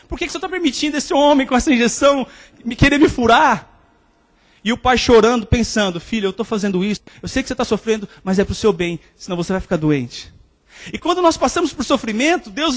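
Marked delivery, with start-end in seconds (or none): 0.1-3.7 put-on pleading child. Crying boy questions his father. 6.0-10.3 tender father. Acted. Weeping father comforts his son.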